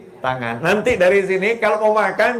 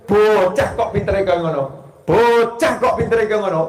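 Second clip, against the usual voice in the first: 1 grandma's scolding; 4 semitones higher than usual. Retold or imitated. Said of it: "dulu Simbah bilangnya apa?".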